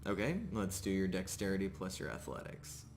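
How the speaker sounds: ordinary talk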